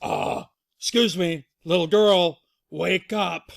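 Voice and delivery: loud, firm father bear; Papa Bear. Acted. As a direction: rouse the sleeper with a loud call. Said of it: "Papa Bear says".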